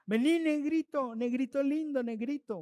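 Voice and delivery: high opening, cooing call that settles down; mock endearment. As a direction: coax with a pet name. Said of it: "son los apodos cariñosos".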